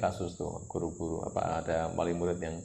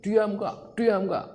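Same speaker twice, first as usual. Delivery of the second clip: put-on much higher and louder, snapping at a crying child; angry shout; 13 semitones higher, 6 dB louder, much slower than usual. Parent yelling at a tantruming child to stop, mock furious shout. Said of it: "dimarah-marahin".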